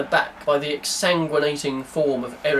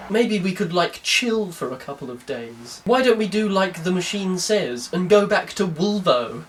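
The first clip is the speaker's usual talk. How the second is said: put-on Wolverhampton accent; 2 semitones higher than usual. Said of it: "he's from Wolverhampton, so that's why he sounds like this".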